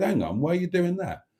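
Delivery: high-pitched quote of a friend; retold interjection. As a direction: cut in high, imitating a friend's query. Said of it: "he said it in his own".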